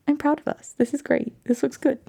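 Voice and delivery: lifted sing-song repeat. Shown as a demonstration. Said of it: "repeated, higher".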